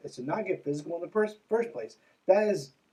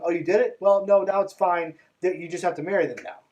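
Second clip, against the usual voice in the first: louder mock cheery verdict; mock church reversal; 2 semitones higher, 6 dB louder than usual. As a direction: flip to breezy approval. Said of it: "mocking church reversal".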